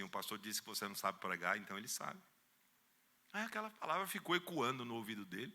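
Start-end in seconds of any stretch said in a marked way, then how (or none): 0.0-2.2 low, soft voice in his ear; calm hushed counsel; gentle divine whisper. Retold or imitated. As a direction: speak softly like a still small voice. Holy Spirit whispering at night.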